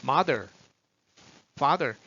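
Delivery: "mother, father" ending in an easy r, tongue drawn back; relaxed back R. Shown as a demonstration. Teacher modelling for students, relaxed r on "mother, father". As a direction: say "mother, father" one by one, r uncurled. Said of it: "뒤로만 살짝 내려놓으세요".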